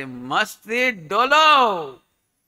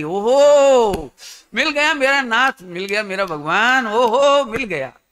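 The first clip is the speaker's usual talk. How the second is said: overjoyed cry; 2 semitones higher, 6 dB louder, slower than usual. Acted. Acting out a seeker's joy.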